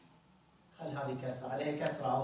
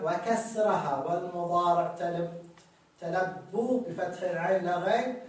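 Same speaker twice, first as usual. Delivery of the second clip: louder text reading; 4 dB louder than usual. Shown as a demonstration. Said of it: "العبارة اللي بعدها".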